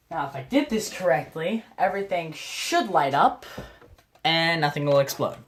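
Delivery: understated sarcastic assurance. Real, not acted. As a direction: say it with dry sarcasm. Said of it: "I say that very sarcastically".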